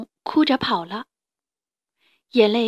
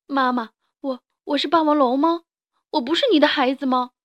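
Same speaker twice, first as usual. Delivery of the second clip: after crying; 4 semitones higher, 3 dB louder than usual. Acted. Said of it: "梁太流着眼泪，吸着鼻子说".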